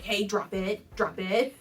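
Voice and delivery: hammed-up owner scolding dog; mock stern command. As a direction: bark the order like a fussing owner. Owner making a big deal.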